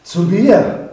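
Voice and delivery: eager shout of the man in the story; called out. A narrator's reading. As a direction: call out in joyful disbelief. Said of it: "rief er".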